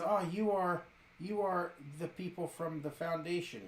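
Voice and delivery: put-on German accent. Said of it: "accent is distinctly German".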